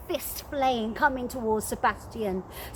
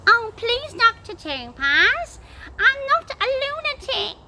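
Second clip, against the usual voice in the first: much higher, louder begging; pleading; 10 semitones higher, 5 dB louder than usual. Acted. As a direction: plead desperately from the cellar. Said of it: "pleaded Malvolio".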